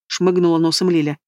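usual speaking voice

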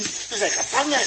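dismayed cry. Acted. Realising capture.

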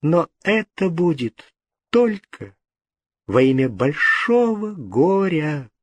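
slow, bitter resignation. A narrator's reading. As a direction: give in slowly and bitterly. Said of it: "прибавила она горько". (медленно, с горечью)

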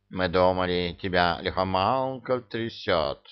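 ordinary delivery, nothing marked

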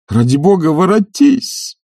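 high, loud, drawn-out plea; begging her to come back through tears; tearful cry. A narrator's reading. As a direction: stretch out the word, almost crying. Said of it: "а слезами кричал он".

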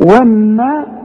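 والنصا with a thick, long صا; the صا heavy and full. Shown as a demonstration. Teacher stresses the heavy صا in والنصا. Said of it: "أعلى درجات التفخيم".

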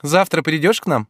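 put-on high, lively young woman voice; Ольга, звонкая девушка. A narrator's reading. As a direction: play Olga pleading playfully. Olga's voice. (звонкий голос юной Ольги)

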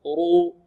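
رو with a thick, dark r and long u; round, heavy رو, held. Shown as a demonstration. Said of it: "تفخم إذا فتحت أو ضمت".

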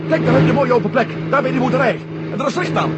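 urgent relief at a safe spot; excited. Acted. Spotting landing place excitedly.

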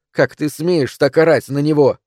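high, loud outraged demand; sharp shout. A narrator's reading. Wife scolding husband for yelling at son, sharp shout. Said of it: "резко закричала она".

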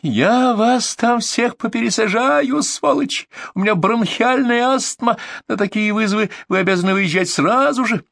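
high, slow furious yell; shrieking. A narrator's reading. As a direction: scream threats down the phone. Furious caller yelling.

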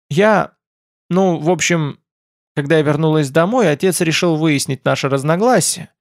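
mildly reluctant, halting start to an explanation; hesitant. A narrator's reading. Rilla explains herself to the hosts, hesitant and halting. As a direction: falter with pauses after the first words. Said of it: "замялась Рилла".

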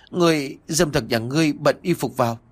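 giọng cao, hơi gắt giận; mắng kẻ dâm tặc, cao giọng; quát giận. A narrator's reading. Bị nhìn trộm, quát kẻ lạ. (quát giận, cao giọng)

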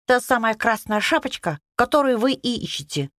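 high squeaky little hare. Acted. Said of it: "пропищал зайчик".

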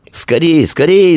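put-on high-pitched boy's urging cry; urgent, high narrated shout; excited shout. A narrator's reading. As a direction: cry out to hurry, building. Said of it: "закричал сын кузнеца".

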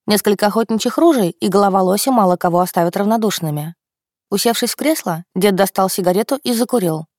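plain reading voice

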